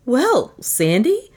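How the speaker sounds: high, slow, bashful try; gulping. A narrator's reading. Flattered inventor tries her first name, gulping. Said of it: "Pat gulped".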